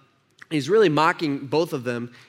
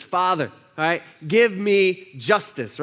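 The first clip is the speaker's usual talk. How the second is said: mock demanding prayer; 4 dB louder, slower than usual. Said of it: "That's not what he says".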